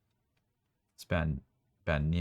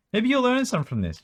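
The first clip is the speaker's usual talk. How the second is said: teasing; 7 dB louder than usual. Real, not acted. Teasing the viewers.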